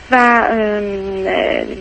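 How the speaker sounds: a real catch of tears in the voice; words stall as she starts to cry; choking up. Real, not acted. Caller retelling the beating to the doctor, choking up.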